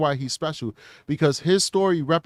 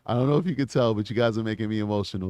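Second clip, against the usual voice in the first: emotional, softer; 5 semitones lower, 4 dB quieter, faster than usual. Real, not acted.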